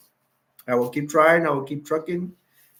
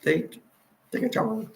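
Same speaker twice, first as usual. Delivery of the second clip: ex-wife voice; 7 semitones higher, 4 dB quieter than usual. Retold or imitated. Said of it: "mimicking ex-wife again".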